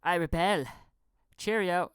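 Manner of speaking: lightly voiced prim Brit; prissy little "I rebel"; mock snooty rebel. Mocking the weak punk line, prim mock-British. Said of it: "some punk you are".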